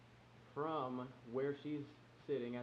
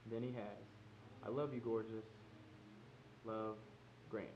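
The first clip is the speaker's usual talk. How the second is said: softer, measured letter reading; reading a love letter; 5 dB quieter than usual. Real, not acted. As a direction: read your heartfelt letter aloud, gently. Reads his love letter aloud.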